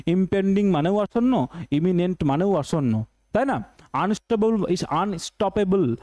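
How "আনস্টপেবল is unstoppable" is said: slow reading. Shown as a demonstration. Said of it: "teacher pronounces word slowly".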